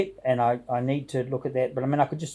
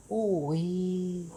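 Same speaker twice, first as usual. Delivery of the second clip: put-on a failed stab at a Yorkshire accent, softer; attempted Yorkshire accent; 5 semitones higher, 5 dB quieter than usual. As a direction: try a Yorkshire accent and miss it. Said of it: "See, I can't get it".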